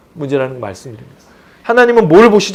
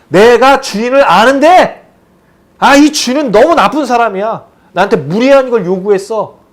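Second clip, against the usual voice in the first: slow, louder, higher whiny gripe; grumbling complaint; 4 semitones higher, 3 dB louder than usual. Retold or imitated. Lazy servant complaining about his master, slow whiny grumble. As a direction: whine about the unfair master. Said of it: "투덜투덜".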